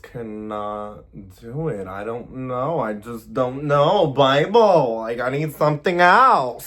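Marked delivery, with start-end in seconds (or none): 1.7-6.7 Kourtney Kardashian impression. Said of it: "trying to do my Kourtney Kardashian impressions".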